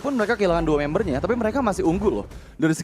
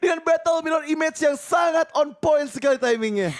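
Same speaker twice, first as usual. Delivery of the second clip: high, slow, shouted hype call; fighting game announcer; 11 semitones higher, slower than usual. Real, not acted. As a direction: belt out the big outplay. Hyped esports play-by-play call.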